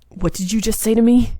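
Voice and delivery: lightly voiced arrogant demon demanding answers; a hint of a haughty clan head; cold demon lord. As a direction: demand it with icy pride. Kazuma bristles at provocation.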